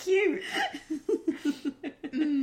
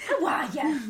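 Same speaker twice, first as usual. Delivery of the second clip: higher mock Irish accent; Irish accent attempt; 4 semitones higher than usual. Trying again for partner, mock Irish accent. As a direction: exaggerate a bad Irish accent. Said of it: "Am I doing it right yet".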